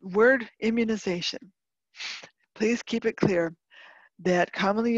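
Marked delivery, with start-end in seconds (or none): 0.0-1.4 immunization set apart after a pause, with emphasis; stress on immunization. Real, not acted. Speaker clarifying a key term for listeners, stress on immunization. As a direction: land deliberately on "immunization". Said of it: "let me emphasize here the word".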